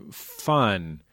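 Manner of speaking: ordinary delivery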